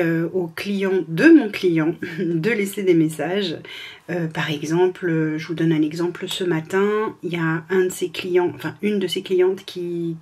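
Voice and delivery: ordinary talk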